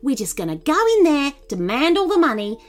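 angry. A narrator's reading. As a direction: lay down the plan crossly. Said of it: "Nin replied angrily".

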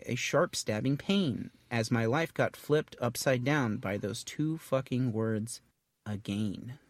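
slow, measured verse recital; starts lifted, slows toward the last word; poem reading. Acted. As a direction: read out a rhyming poem with mock drama. Reads a sample poem aloud.

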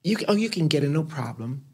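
high, stretched-out imitation; put-on high voice, coaxing a friend along; Pat Cleveland. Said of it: "and she said".

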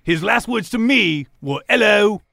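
lightly hammed-up imitation of a greeting; mock last words. Cellmate imagines prisoner's last words, teasing mock quote. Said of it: "I wouldn't say it like that".

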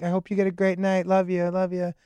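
soft, affectionate goodnight; sweet wife. Retold or imitated. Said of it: "she's a very sweet person".

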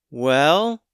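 put-on high young boy calling up; high boy's voice calling up a well. A narrator's reading. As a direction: call up from the well as a kid.

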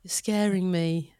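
lightly imitated British accent; British-accented mimicry of a girlfriend. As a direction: put on a British accent for a plea. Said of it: "'Cause of the British accent".

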